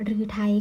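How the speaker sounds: "รือไทย" with a long ue first syllable; model reading. Shown as a demonstration. Teacher ending the word list, careful pronunciation. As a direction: read out "รือไทย" clearly. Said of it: "อ่านว่า".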